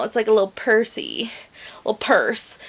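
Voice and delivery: cooing whisper. Real, not acted. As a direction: whisper it like something tiny and cute. Cooing over small purse.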